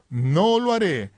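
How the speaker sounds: slow, emphatic refusal; Jesús. Retold or imitated. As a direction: declare it firmly, stretching the key words. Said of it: "Y Jesús dijo". (negativa solemne y pausada)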